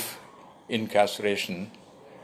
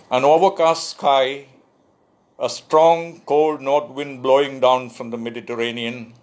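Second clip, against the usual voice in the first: lifted, louder poetry-reading voice; poem recitation; 4 semitones higher, 4 dB louder than usual. Acted. Poet reading "Expectantly" to an online audience, lifted recitation. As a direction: declaim the opening images phrase by phrase.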